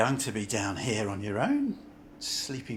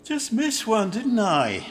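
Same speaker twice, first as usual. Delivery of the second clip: annoyed exclamation; 8 semitones higher, 7 dB louder than usual. Acted. Annoyed at missing the train.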